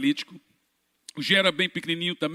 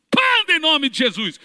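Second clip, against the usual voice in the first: loud, high command; commanding shout; 9 semitones higher, 5 dB louder than usual. Retold or imitated. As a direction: order him to walk, full force. Ordena ao paralítico andar. (grito de ordem ao paralítico)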